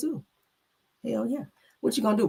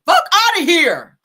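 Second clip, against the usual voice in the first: slow, loud, higher dismissal; mock brazen brush-off; telling off the police; 8 semitones higher, 10 dB louder, slower than usual. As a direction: spit it out with disdain. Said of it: "I wanna say that shit to the police too".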